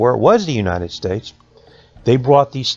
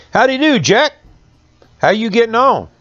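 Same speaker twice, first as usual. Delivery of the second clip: put-on old man greeting; 12 semitones higher, 4 dB louder than usual. Old one-eyed man greets.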